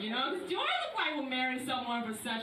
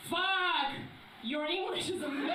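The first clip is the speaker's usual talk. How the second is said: mock amazement; 5 semitones higher than usual. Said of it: "people say".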